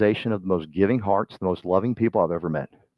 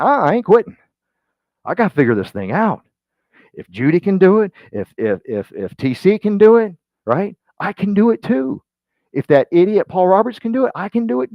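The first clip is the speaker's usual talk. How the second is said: higher and louder, pumping himself up; fired-up self-talk; 9 semitones higher, 6 dB louder than usual. Retold or imitated. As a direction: shout the resolve like nothing can stop you. Voicing a dreamer's fired-up resolve.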